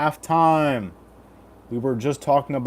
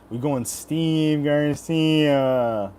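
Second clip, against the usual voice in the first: announcer voice; 3 semitones higher, much slower than usual. Acted. Repeat of announcer call.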